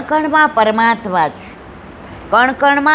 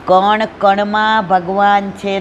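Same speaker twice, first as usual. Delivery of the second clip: x0.6 slow, weighted કણમાં; preacher driving home the point; slow emphatic refrain; 3 semitones lower, slower than usual. Shown as a demonstration. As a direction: lean slowly on કણ કણમાં ભગવાન છે. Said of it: "repeated sermon refrain".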